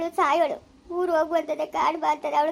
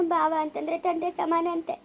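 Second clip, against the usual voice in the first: tearful plea. Acted. Wife pleads, husband arrested.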